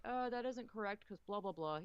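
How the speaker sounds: mildly snarky mock critique. YouTuber picking apart actors' accents, mildly snarky. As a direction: imitate a nitpicking critic, lightly snarky. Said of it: "That sounds very snarky".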